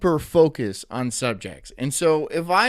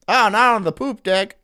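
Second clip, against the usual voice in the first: loud, high mock outrage; 6 semitones higher, 7 dB louder than usual. Real, not acted. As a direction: cry it out in fake shock. Joking exclamation.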